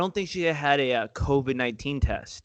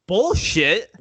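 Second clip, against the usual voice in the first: scoffing retort; 5 semitones higher, 6 dB louder than usual. Retold or imitated. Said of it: "I'm like".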